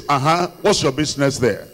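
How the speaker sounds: brazen dismissal. Retold or imitated. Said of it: "he will just use bold face".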